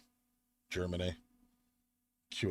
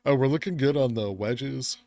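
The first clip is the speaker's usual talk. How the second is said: excited; 8 semitones higher, 12 dB louder than usual. Real, not acted. Streamer sees chart breakout.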